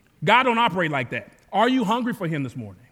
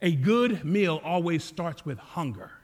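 put-on French accent; slower than usual. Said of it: "He says that in a real thick French accent".

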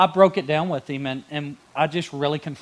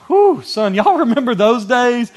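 laughing; 9 semitones higher, 10 dB louder, slower than usual. Real, not acted. Nostalgic about old youth ministry.

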